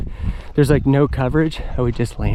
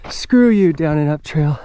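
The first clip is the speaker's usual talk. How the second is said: mock insult. Real, not acted. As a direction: tell the trail off. Cursing the trail after leaving.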